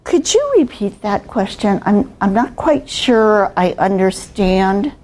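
measured, polite request to repeat; slow and articulate. Shown as a demonstration. Trainer modelling how to ask for a repeat, composed and slow. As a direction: take it slow, keep the tone down. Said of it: "keep your tone down, don't raise your pitch".

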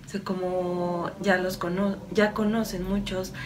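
calm, slightly softened meditative delivery; channeled message. Acted. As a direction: deliver it evenly, as an unhurried spiritual message. (mensaje canalizado, en tono sereno y pausado)

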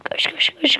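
hushed rapid run run; whispered urging. Real, not acted. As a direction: whisper it urgently under breath.

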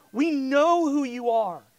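loud, emphatic proclamation; retold crying out. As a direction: declare it boldly for the disciples. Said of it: "they're crying out".

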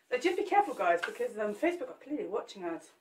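breathless, puffing between words; out of breath. Real, not acted. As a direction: talk while short of breath. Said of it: "I'm out of breath already".

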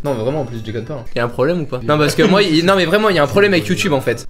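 slurring a little, tipsy. Real, not acted. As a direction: talk like you've had a few shots. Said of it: "Il est bourré".

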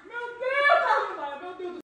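slow thrilled cries of alarm; on a roller coaster. Pretend. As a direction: shout it like the ride drops. Riding the game roller coaster.

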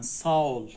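ساول with a soft g. Shown as a demonstration. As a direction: say ساول with the g softened almost away. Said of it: "یوموشاک گه".

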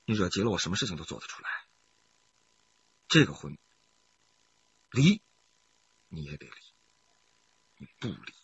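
quiet threat; low menace. Acted. Husband quietly threatens his wife, low and cold.

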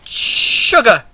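high frightened yell; startled scream. Real, not acted. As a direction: shriek in fright. Scared by mob.

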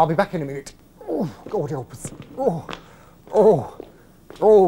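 ordinary talk

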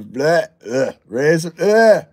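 gagging noises. Real, not acted. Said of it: "it's gonna make me gag".

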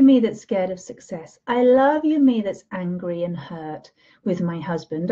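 swelling then fading to a hush; loving self-talk. Shown as a demonstration. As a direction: pour love into each I love you. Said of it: "and you say".

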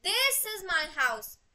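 This long and emphatic at the front; stress on This. Shown as a demonstration. Teacher recapping the first version, stress on This. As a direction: land hard on "This", then let the rest follow. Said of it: "different versions में explain कर सकते हैं".

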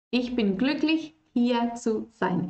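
hier zu sein stretched slowly; slow model phrase. Shown as a demonstration. Teacher reading a viewer's example, slow and clear. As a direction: read Ich bin glücklich, hier zu sein slowly and clearly. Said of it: "alguien dejó ahí un ejemplo".

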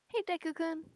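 accidental high squeaky greeting. Acted. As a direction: greet them in a silly squeak. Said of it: "what am I doing with my voice".

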